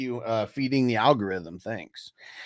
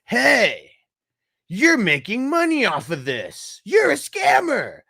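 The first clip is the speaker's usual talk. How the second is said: high, louder hammed-up accuser, rising higher; mock troll voice; 9 semitones higher, 3 dB louder than usual. Streamer mocks a chat troll scolding a grocer in a high mock voice. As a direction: play the nagging troll at the checkout. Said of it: "Do you go in and you're like".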